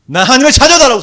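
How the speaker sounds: high, loud declaration; proclaiming shout. Shown as a demonstration. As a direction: proclaim it boldly. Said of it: "선포한다는 것입니다".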